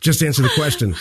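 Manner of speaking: high, loud mock impatience with a laugh; exasperated kid. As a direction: plead with a rambling dad, half laughing. Kid begs rambling dad to answer.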